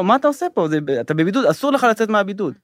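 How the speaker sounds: mock yell, starting high; retold shouting. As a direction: imitate staff yelling at a patient, not at full volume. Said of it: "והם צועקים לו". (חיקוי של צעקות נזיפה)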